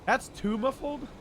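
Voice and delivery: muffled through a t-shirt. Real, not acted. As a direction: voice muffled by cloth over the face. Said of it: "It's not muffled enough".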